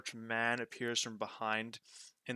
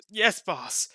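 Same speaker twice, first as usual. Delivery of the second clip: higher, louder nervous yes; meek obedience; 7 semitones higher, 8 dB louder than usual. Acted. Roka meekly obeys his boss in a high voice. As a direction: answer meekly and scurry off.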